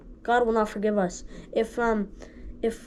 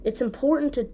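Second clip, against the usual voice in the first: breathy whispered start of the point. Shown as a demonstration. Preacher whispering the key point before saying it aloud. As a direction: drop to a whisper on important. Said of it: "repeats the point".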